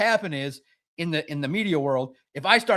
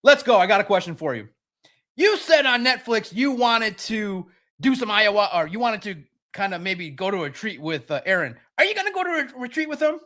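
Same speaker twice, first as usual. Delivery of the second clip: eager; 2 semitones higher than usual. Pretend. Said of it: "I should have said".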